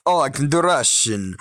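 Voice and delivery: quick stab at a Russian accent; mock Russian accent; Russian accent attempt. Shown as a demonstration. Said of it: "I do best at Italian and Russian".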